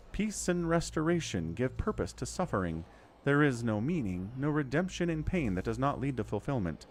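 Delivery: lightly voiced goddess, solemn. Reads the goddess's lines aloud.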